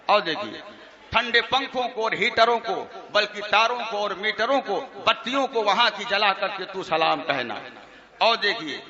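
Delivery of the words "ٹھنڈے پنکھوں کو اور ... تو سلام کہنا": chanted verse through chuckles; mocking the verses for the audience; mock poem recitation. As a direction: recite it teasingly, laughing a little. Recites mocked salaam verses.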